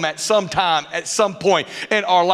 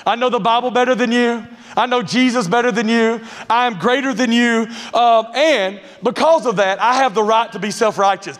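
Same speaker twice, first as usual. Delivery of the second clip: know-it-all voice; 3 semitones higher than usual. Retold or imitated. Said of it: "the Pharisee religious know-it-all mask".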